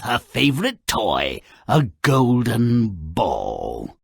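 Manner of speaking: storybook read-aloud, lilting and grand; fairy-tale narration. A narrator's reading. Sardonic game narrator reading the fairy tale aloud. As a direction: tell it like a once-upon-a-time tale.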